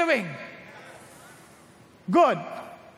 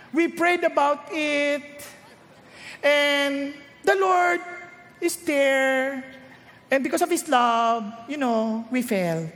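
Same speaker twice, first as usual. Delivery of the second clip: pious couple's excuse; slower than usual. Retold or imitated.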